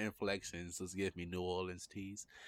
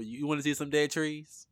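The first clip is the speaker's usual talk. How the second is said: hyped mock intro; 7 semitones higher, 6 dB louder than usual. Mock podcast intro, higher.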